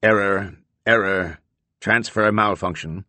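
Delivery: calm mechanical voice. Acted. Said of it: "A mechanical voice says calmly".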